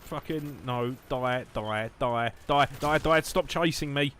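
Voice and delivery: urgent yelling that climbs as it goes; frantic gaming. Real, not acted. Gamer yelling at enemy chasing them, frantic.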